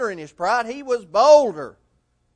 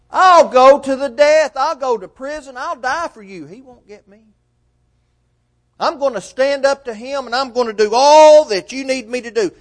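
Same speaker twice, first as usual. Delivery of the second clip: defiant boast; 4 semitones higher, 7 dB louder than usual. Retold or imitated. Peter boasting to Jesus, loud defiant vow. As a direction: swear it proudly. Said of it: "what he said".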